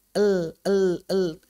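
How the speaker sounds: "El, el, el" barely touched, very light; very thin. Shown as a demonstration. Teacher drilling a very thin lam. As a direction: keep "el" paper-thin. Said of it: "tipis sekali".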